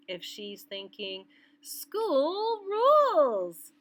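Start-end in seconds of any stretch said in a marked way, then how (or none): 1.6-3.7 high, slow, drawn-out cheer; girl's excited thought. Pretend. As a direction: sing it out like a thrilled little girl. Teacher voices girl's thought.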